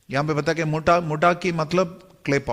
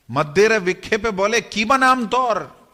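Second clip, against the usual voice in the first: scripture verse recitation; 6 semitones higher than usual. A narrator's reading. (श्लोक का सस्वर पाठ)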